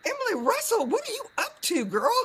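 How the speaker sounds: high, playful Southern greeting; Southern accent. Acted. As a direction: sing out the guest's name Southern style. Exaggerated playful greeting of guest.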